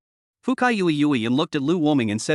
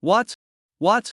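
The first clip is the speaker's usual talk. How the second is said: disbelief; 6 semitones higher than usual. A narrator's reading. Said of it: "had an unbelievable face".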